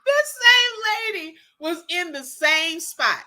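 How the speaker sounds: crying with laughter; laughing disbelief. Real, not acted. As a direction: laugh through the words.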